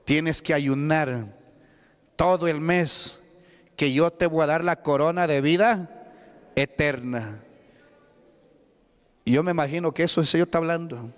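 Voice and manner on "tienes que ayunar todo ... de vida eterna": lento y solemne, un toque de voz divina; voz de Dios, apenas marcada. Acted. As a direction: habla como Dios a su hijo, despacio. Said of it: "Dios dice". (Dios le pide al hijo que ayune, lento y solemne)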